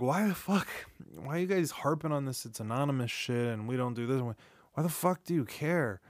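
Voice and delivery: mock-baffled challenge to the do-gooders; exasperated questioning. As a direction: act out being fed up with nagging. Voicing old exasperation at hotline advice.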